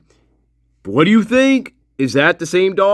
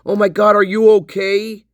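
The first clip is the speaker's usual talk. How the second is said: high-pitched acted fussing over a pet; mock concern; 6 semitones higher than usual. Imagined dog lover checking on the dog, concerned. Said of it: "You know, like".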